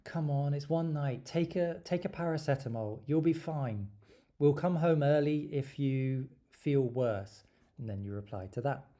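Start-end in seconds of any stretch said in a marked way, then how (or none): 0.0-7.4 coaxing flatmate. Acted. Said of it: "interlocutor could reply and say".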